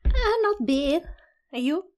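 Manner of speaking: put-on a joking Australian accent in a greeting; mock Australian accent. Guest greeting the host in a joking Australian accent. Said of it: "What accent was that?".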